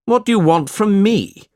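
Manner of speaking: high, loud, irritated shout. A narrator's reading. Ralph rebuffing the old beggar, shouting. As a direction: shout the question impatiently. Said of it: "shouted Ralph".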